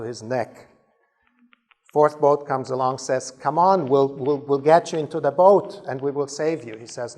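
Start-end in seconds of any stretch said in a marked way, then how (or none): 3.3-6.8 loud, mildly urgent rescue call; lightly acted boatman's holler. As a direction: urge him aboard with a raised voice. Fourth boatman calls out.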